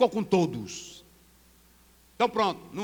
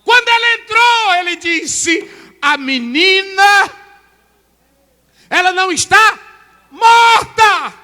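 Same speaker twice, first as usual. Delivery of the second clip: slow, much higher and louder proclamation; preaching shout; 10 semitones higher, 15 dB louder, slower than usual. Acted. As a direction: proclaim it with full force. Preaching at full force.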